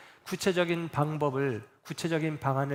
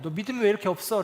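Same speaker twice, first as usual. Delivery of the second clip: fast, slightly louder reproach; tossing out a quick irritated scold; a hammed-up nagging rebuke; mock exasperated scolding; 4 semitones higher, 4 dB louder, faster than usual. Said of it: "라고 꾸짖는 게 아니에요".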